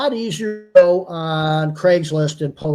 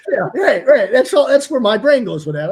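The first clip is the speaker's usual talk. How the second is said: laughing; 5 semitones higher, 6 dB louder than usual. Real, not acted. Laughing at pixie joke.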